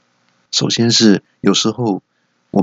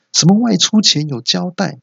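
外出前有交代 squeaked much higher, mocking; mocking repeat; 10 semitones higher than usual. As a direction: throw 外出前有交代 back in a shrill mocking voice. (尖声嘲讽重复"外出前有交代")

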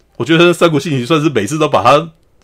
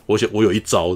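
mock-cool, lower and softer; imitating a cool guy; 6 semitones lower, 6 dB quieter than usual. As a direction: play it cool with a low, understated delivery. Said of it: "四原主人就很帅".

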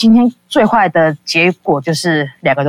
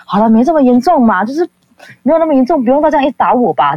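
teasing, higher and sing-song; joking, teasing; 7 semitones higher than usual. Retold or imitated. Joking with the furious girl to calm her, playful and higher. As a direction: brush it off lightly, playfully high. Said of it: "跟他开开玩笑".

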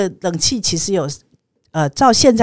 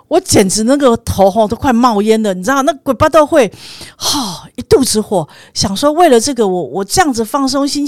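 louder, exasperated telling of her anger; fuming about the broken air conditioning; heated retelling; 4 semitones higher, 5 dB louder than usual. Retold or imitated. Narrator reliving her anger at the car, louder and exasperated.

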